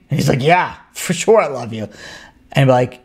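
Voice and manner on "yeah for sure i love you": low, loose tipsy assurance; a hint of drunken slur; lightly voiced drunk. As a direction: reassure a drinking buddy, mildly tipsy. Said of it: "one drunken person say to another drunken person".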